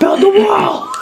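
very high screamed chant; mock climax scream. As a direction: shriek it as an over-the-top climax impression. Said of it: "He's just fucking screaming while he's coming".

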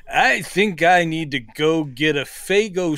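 everyday line lightly declaimed; Heston impression. Host as Heston playing an unemployed postal worker, mock dramatic. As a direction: weird dramatic emphasis on a trivial errand. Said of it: "dripping with this weird, dramatic emphasis".

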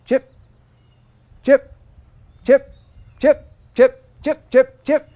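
high, loud bird chips; imitated bird chips. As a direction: chirp like a cardinal. Imitating cardinal chip calls.

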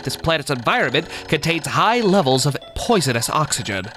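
a touch of a nerd voice; nerdy voice. Acted. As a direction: read it like a nerdy little captain. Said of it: "I'm gonna give him my fucking nerdy voice".

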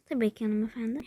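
whispered, humble maid reply; mock servant whisper. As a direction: answer like a discreet servant. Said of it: "Buyurun Ceren Hanım".

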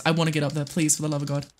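normal talking voice

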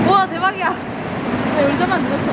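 high, loud amazed wow. Real, not acted. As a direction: gasp it out in real amazement. Amazed reaction.

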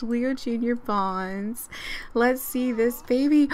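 ordinary talk

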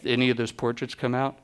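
lightly imitated low-key voice; a singer. Singer asks photographer about portraits after the show, lightly imitated low-key voice. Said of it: "'Cause that's how he talks".

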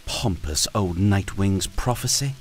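lightly voiced queen, rising scorn; a hint of a scornful queen; mocking dragon queen. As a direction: ridicule the prophecy. Byrne mocks the prophecy.

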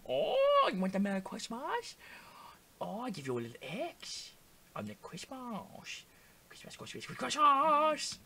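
high, drawn-out mock Asian accent; caricatured Asian accent, stretching the words. Player clowning at the game, mock Asian accent. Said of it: "that's Asian".

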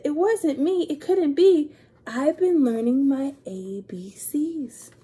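insist, a little indignant; alligator's protest. Acted. Alligator insisting to Pete he didn't do it.

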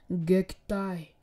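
loud, drawn-out battle call; attack call. Acted. Naruto rushes at Haku, loud attack call. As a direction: call out the move, stretching it.

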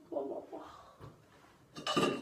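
slow drawn-out blah; bored mumble. Acted. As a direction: drag it out lazily. Trailing mumble.

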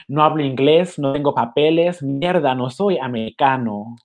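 measured, deliberate poem reading; poetry reading. Acted. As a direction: read it like a spoken-word poet. Reads poem aloud.

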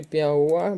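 піауа with the last part УА stressed; піауа leaning on its final УА; stress on third syllable. Shown as a demonstration. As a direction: land on the ending of піауа. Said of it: "падає наголос на третій склад".

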